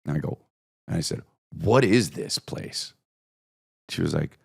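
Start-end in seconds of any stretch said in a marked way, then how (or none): 1.5-2.9 slow, drawn-out question; slowly, as if baffled. Retold or imitated. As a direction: stretch each word of the question. Baffled customer quoting himself, drawn out.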